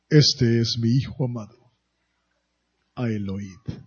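very low, booming, distant divine voice; voice of God from the cloud. Retold or imitated. The cloud's voice speaking to the disciples, very low and solemn. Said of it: "no sé cómo dijo así con este tono".

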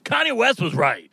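mock statement while laughing. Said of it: "I'm just kidding".

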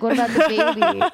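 high, laughing Lucy voice; imitating Lucy. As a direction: squeak it out like a worried girl.

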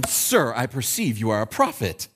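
sarcastic. Acted. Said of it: "most sarcastic verses in the Bible".

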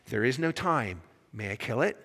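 lightly voiced firm angel. Angel pressing the reluctant ghost, calm and firm. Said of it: "But the angel says".

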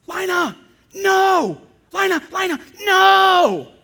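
screaming the dog's name in terror, high and loud; retold terrified scream. Wife screaming at the dog in the living room, high panicked scream. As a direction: shriek it in panic. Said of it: "She is screaming".

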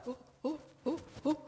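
high little imitated "ooh" noises; short, high tongue-tied hoots; stammered speechless oohs. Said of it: "because you're just like".

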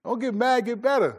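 high, loud coaching pep talk; dad coaching his son through a lost game. Retold or imitated. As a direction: fire the kid up to do better. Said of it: "I said".

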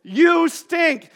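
loud mocking boo from the family; shouted family heckle; booing crowd. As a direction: jeer it like a heckler. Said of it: "Everybody went".

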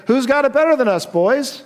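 loud, high cheerful dad call; rally the boys with pride; playful fatherly rally cry. Retold or imitated. Dad rallying sons, acted call.

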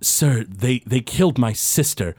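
a hint of a desperate dwarf woman; pleading dwarf woman. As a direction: beg to be let out for revenge. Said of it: "dwarf woman says".

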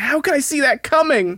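lightly hammed-up disbelief; mock surprise. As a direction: play dumb, innocently shocked. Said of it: "you were like".

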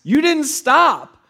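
high, loud, drawn-out accusation; yelling father. Retold or imitated. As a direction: imitate a dad's slow exasperated shout. Father yelling at son, retold.

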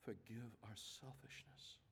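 unhurried, earnest public prayer; prayer of confession. Real, not acted. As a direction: confess to God haltingly, phrase by phrase.

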